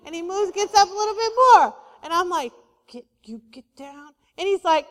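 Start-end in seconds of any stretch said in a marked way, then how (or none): 2.9-4.1 low, very soft telling-off; half-hearted command. Retold or imitated. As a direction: order the dog down with no authority. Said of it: "I don't think you mean it".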